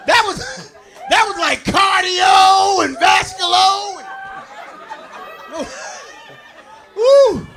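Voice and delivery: slow, gasping and laughing; puffing through the laughter; winded, laughing. Pretend. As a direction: drag it out as if spent. Winded after the ordeal.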